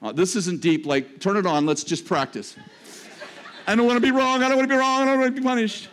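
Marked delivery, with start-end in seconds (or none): 3.7-5.9 fearful believer. Retold or imitated.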